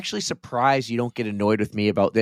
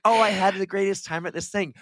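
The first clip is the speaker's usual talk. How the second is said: mocking imitation; 9 semitones higher than usual. Mimicking co-host's boast, then answering.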